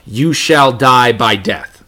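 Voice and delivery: slow, deliberate Greek wording; emphatic rendering. Shown as a demonstration. Teacher reading the Septuagint wording slowly, emphatic. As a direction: stress each word gravely. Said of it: "even more emphatic".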